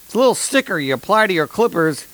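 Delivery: a touch of a radio ad pitch; mock sponsor announcement. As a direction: lightly announce the sponsor like a cheesy commercial.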